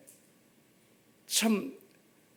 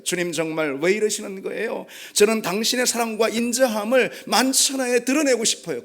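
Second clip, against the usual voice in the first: pleading protest, rising higher; protesting appeal; 3 semitones higher than usual. Acted. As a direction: plead your case to God. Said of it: "하나님께 항변하면서 자신의 처지를".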